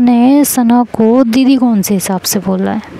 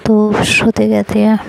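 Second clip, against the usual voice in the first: ordinary delivery, nothing marked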